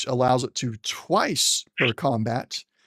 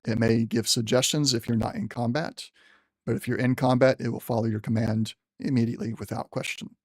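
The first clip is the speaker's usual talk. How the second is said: general's voice. Acted. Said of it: "trying to use the general's voice".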